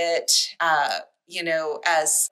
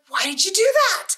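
high, louder indignant Grover cry; 13 semitones higher, 5 dB louder than usual. Retold or imitated. Reading aloud to a friend, Grover's high indignant cry. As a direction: play Grover, outraged the reader turned the page. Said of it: "he's like".

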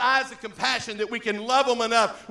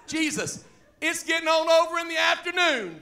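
high-pitched whiny reminder; imitated fretful follower; nagging disciples; 7 semitones higher, 5 dB louder than usual. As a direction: put on a high complaining voice. Voicing nagging disciples to Jesus.

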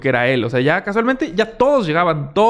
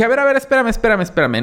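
holding back the driver by his truck; calling him to wait; 9 semitones higher, faster than usual. Retold or imitated. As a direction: stop him before he drives off. Stopping the driver from leaving.

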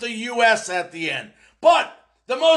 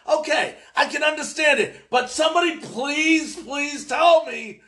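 raised-pitch, frustrated begging; exasperated plea; 4 semitones higher than usual. Real, not acted. Host begs listeners to explain the retirement, exasperated. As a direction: concede it, then plead with mounting exasperation.

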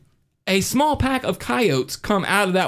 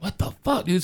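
high-pitched disbelief; mock panicked bewilderment; bewildered retold reaction; 4 semitones higher than usual. Retelling his alarm in the dream.

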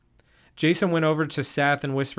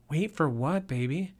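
sincerely; 2 semitones higher, 4 dB quieter than usual. Acted. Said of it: "Ava sincerely asked".

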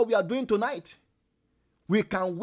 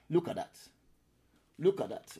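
ordinary delivery

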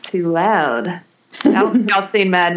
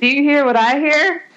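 jack o lantern voice; 7 semitones higher than usual. Acted. Spooky horror-host greeting.

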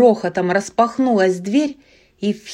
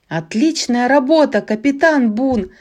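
joyful exclaim; 4 semitones higher than usual. Acted. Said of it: "радостно воскликнула Рая".

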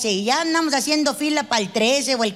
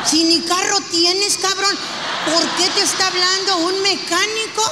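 jealous accusing; 4 semitones higher than usual. Retold or imitated. Jealous wife interrogates husband.

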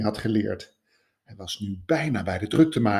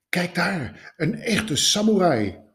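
passersby; 8 semitones higher, slower than usual. A narrator's reading. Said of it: "hoorde hij sommigen tegen elkaar zeggen".

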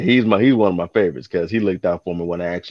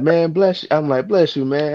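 higher, hammed-up thanks; mock grateful; 8 semitones higher than usual. Carrier acting dehydrated to the customer, hammed-up thanks. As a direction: bless him like you're parched.

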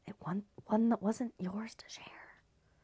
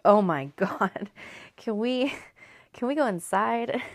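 mock whining; 3 semitones higher, 7 dB louder than usual. Complaining about the mild heat.

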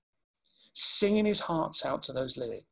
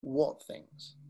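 low, soft late-night radio voice; midnight DJ voice; 3 semitones lower, 5 dB quieter than usual. Shown as a demonstration. Showing the audience the question, low quiet DJ voice. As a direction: lower the pitch and soften it like a late-night DJ. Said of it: "your midnight D J voice".

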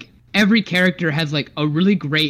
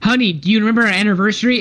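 wife voice; 5 semitones higher, 3 dB louder, much faster than usual. Pretend. Playing the wife.

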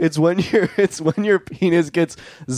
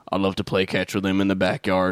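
cowboy; 4 semitones lower than usual. Acted. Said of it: "a cowboy showing up to your door and be like".

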